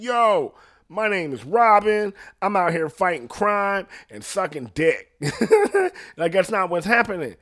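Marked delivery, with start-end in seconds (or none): 0.0-5.1 higher, louder hammed-up superhero announcement, laughing at the end; mock Robin press conference. Robin mockingly introducing himself at a press conference, hammed-up and loud. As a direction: announce it like a cocky hero at a podium. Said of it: "being like".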